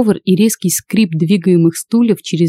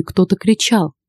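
usual speaking voice

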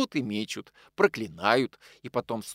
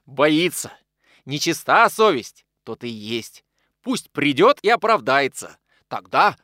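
возмущённый выкрик; 3 semitones higher, 8 dB louder, slower than usual. Acted. Захаров негодует на неё.

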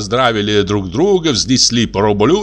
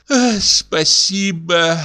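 sigh; 6 semitones higher, much slower than usual. Acted. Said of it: "вздохнула".

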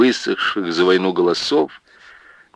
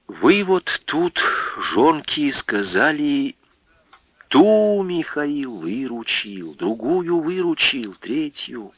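higher, slower earnest village woman; voiced village widow; 6 semitones higher, 4 dB quieter, slower than usual. Widow telling the village women, mildly tearful. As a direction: plead gently as the widow Анфиса.

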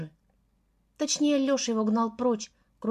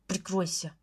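angry snap; 3 semitones lower, 5 dB quieter than usual. A narrator's reading. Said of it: "цыкнул зло".

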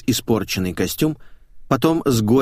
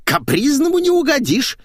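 high loud scornful snort; snorting retort; 4 dB louder than usual. Acted. Maid scoffing at her fussy employer, snorting. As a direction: sneer at his whims. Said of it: "фыркнула глупая баба".

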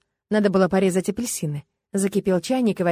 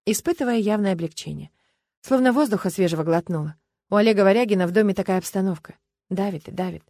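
ordinary delivery, nothing marked

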